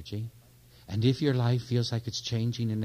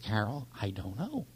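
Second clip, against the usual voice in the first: slow, voiceless whisper; hushed scared confession; frightened whisper; 5 dB quieter, much slower than usual. Retold or imitated. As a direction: whisper the fear slowly. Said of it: "And I said".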